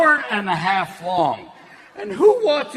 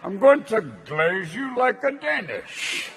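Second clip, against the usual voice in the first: Gregory Peck. Retold or imitated. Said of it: "Was Gregory Peck going".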